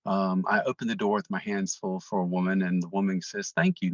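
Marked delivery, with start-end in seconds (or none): 3.5-3.9 high, louder-pitched quoted thank-you; retold thanks. Woman thanking the man who held her door, retold high thanks. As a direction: lift the thanks well above usual pitch.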